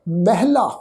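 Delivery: ਮਹਿਲਾ said as mehla, the ha folded into the first vowel; correct pronunciation. Shown as a demonstration. Teacher demonstrating ਮਹਿਲਾ to the congregation, careful pronunciation. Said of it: "ਕੀ ਪਾਠ ਉਚਾਰਨ ਹੋਏਗਾ ਜੀ".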